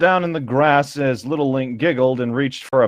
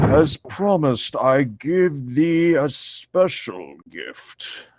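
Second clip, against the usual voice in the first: Treebeard voice; much slower than usual. Acted. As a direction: drag each word out like an ancient tree. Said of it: "I'm trying to do Treebeard".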